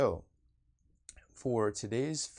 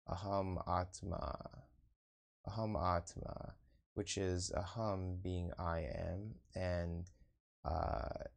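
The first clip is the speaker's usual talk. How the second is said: measured meditation-teacher delivery, pausing between phrases; guided meditation. Acted. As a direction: lead them inward in unhurried, spaced-out phrases.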